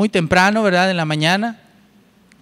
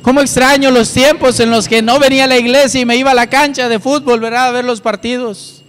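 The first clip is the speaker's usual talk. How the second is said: mock nostalgia; 4 semitones higher than usual. Mock longing for old life.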